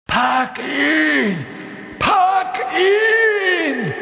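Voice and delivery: high, loud shriek, rising on the repeat; shrieking order. A narrator's reading. Voldemort shrieks at Quirrell again to seize Harry. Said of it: "kreischte Voldemort erneut".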